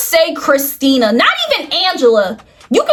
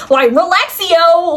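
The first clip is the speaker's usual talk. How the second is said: mock Spanish; slower than usual. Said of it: "however you say relax in Spanish".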